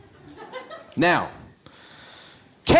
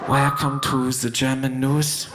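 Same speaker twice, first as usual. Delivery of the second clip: lower, softer monotone news read; dull German newsreader; 7 semitones lower, 5 dB quieter than usual. Retold or imitated. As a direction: read it like the most boring anchor. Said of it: "which is such a drag".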